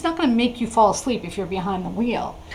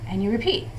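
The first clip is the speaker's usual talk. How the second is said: slow guided breathing instructions; 4 dB quieter than usual. Shown as a demonstration. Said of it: "like this".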